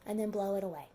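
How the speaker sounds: soothing teacher voice. Shown as a demonstration. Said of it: "tell them".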